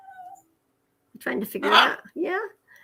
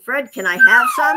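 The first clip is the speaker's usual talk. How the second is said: high coaxing voice; 8 dB louder than usual. Retold or imitated. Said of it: "I said".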